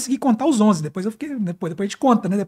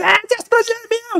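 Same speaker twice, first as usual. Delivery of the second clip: put-on high, shouted soldier voice yelling; 12 semitones higher than usual. Retelling how another soldier joined the shouting: imitating De Paula yelling. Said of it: "De Paula gritando".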